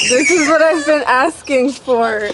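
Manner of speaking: real joy over the car; excited shout. Real, not acted. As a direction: blurt it out overjoyed. Wife overwhelmed by gift.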